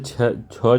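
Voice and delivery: छ drawn out slowly; stressed sound. Shown as a demonstration. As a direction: linger on छ to point it out. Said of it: "इसमें जो main बात है". (छ पर ज़ोर, धीरे-धीरे)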